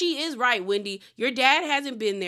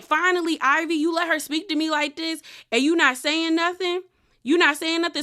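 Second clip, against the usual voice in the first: higher-pitched imitated grievance; indignant complaint; 5 semitones higher than usual. Imitating Wendy complaining to Ivy, indignant. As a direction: act out an exasperated appeal.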